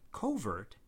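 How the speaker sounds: "covert" said as KOH-vert; first-syllable stress. Shown as a demonstration. Demonstrating alongside overt, first-syllable stress. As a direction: lean on the opening co of "covert". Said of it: "stress on the first syllable".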